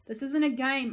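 loud angry yell; angry scolding yell. A narrator's reading. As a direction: yell it at them. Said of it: "I yelled".

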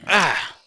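short, high, loud yelp; startled yelp. Real, not acted. Gamer surprised by an enemy, startled yelp. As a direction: yelp at a sudden scare.

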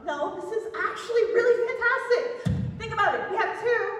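loud, excited insistence; excited pitch. Acted. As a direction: sell the idea with loud enthusiasm. Sudden delight at solving the case.

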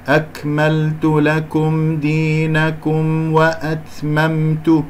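تلاوة بطيئة مرتلة; رتّل "أكملت لكم دينكم" بتمهل; ترتيل مجود. Shown as a demonstration. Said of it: "نضم الشفتين". (تلاوة قرآنية بطيئة)

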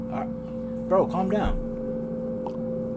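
hushed slow whisper; whispered aside. Real, not acted. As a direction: breathe it out to calm him. Hushed to a friend.

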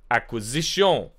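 slipping into a French accent; French-accented ending on the word. Real, not acted. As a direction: say it as if it were French. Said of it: "I went French there".

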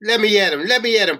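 high, worked-up cry. A narrator's reading. Guard lunging at the prisoner, high heated cry. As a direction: cry out, straining to get at him. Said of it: "Percy cried".

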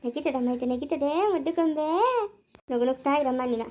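soft lullaby-like cooing; cooing to a baby. Acted. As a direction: murmur to the baby so it keeps smiling.

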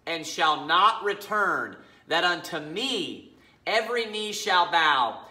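slow, emphatic Bible reading; scripture reading. Acted. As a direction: read scripture deliberately, weighting each phrase. Reads scripture aloud.

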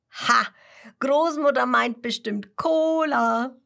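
triumphant Kasper with a bright idea; sudden idea. A narrator's reading.

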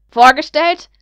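loud, rising, incredulous shout; flaring up. Acted. Lucius flares up at his son over the introduction, shouting. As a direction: bark the word back at him in outrage. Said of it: "brauste Lucius auf".

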